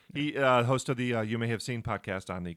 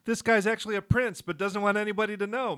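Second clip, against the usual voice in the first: dramatic bit part; 11 semitones higher, 6 dB louder than usual. Acted. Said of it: "I liked your delivery".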